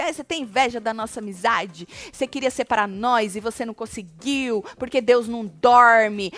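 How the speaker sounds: retold reproach that builds to a weighty finish; retold accusation. Retells Jaque's accusation.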